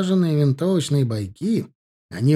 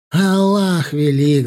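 loud, slow battle cry; shout; 3 semitones higher, 7 dB louder, slower than usual. A narrator's reading. Nabi rallying the mujahideen, slow loud war cry. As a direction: hurl it to the crowd. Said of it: "закричал Наби".

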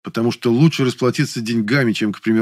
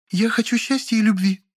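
high, firm and challenging; defiant Lilya; 12 semitones higher than usual. A narrator's reading. Lilya staring at the narrator, high and defiant. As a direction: say it straight into his eyes, high. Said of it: "твёрдо и с вызовом сказала Лиля".

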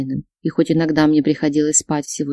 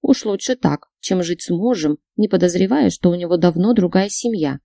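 ordinary delivery

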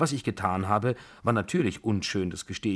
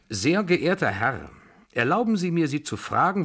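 stiff indignation; 6 semitones higher, 4 dB louder than usual. A narrator's reading. Pompous general confronts the narrator.

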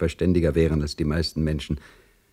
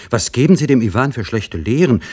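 zornig; 6 semitones higher, 5 dB louder than usual. A narrator's reading. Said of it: "rief Lieschen zornig".

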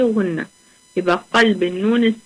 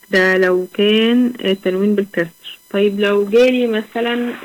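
normal talking voice

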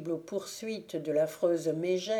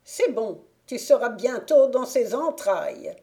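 high, loud gloating witch voice; 5 semitones higher, 8 dB louder than usual. A narrator's reading. Witch to Sigurd, sure her spell works: loud high gloat. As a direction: crow over the boy's fate like a witch. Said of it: "witch gloating".

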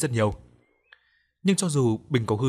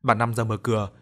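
ordinary delivery

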